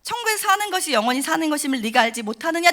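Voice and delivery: solemn quoted voice of God; voice of God repeated. Retold or imitated. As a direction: repeat God's solemn words to the congregation. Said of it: "여러분 아시겠죠?".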